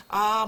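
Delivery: "아" with the mouth opened wide like a yawn. Shown as a demonstration. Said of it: "하품할 것처럼 다 크게". (하품하듯 입을 크게 벌린 "아")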